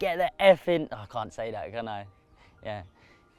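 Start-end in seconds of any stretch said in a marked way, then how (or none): 0.0-0.9 put-on scream. Retelling shouting at a friend to bring the net: imitating a scream. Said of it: "screamed at him".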